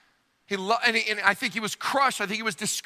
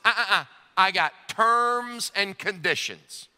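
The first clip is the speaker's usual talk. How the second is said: stubborn refusal; 2 semitones higher, slower than usual. Acted. Thomas refuses, sets terms.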